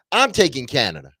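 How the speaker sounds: loud, high, forceful declaration; said with chest. Shown as a demonstration. Co-host showing Willie how to declare it, loud and bold. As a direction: belt it out with full conviction. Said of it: "You gotta say it with your chest".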